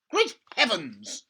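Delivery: slow, loud amazed cry; father amazed at the giant hen, crying out; excited cry. Acted. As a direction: bellow it in wonder. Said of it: "he cried".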